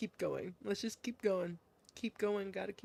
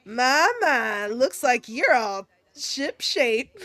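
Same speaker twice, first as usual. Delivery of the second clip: admiring folksy woman. Acted. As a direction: size up a fine young soldier approvingly. Voices Missus Kyozuka, with a retake.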